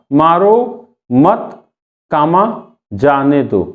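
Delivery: "मारो मत", "कामा" named, pause, falling "जाने दो"; comma after मत. Shown as a demonstration. Teacher moves the comma, pausing after "मत". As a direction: break after "मत", drop on "जाने दो".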